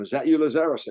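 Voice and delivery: re-enacting a guard's surprise; acted-out startled question. Guard asking the man who came in, startled. Acting out his movie line.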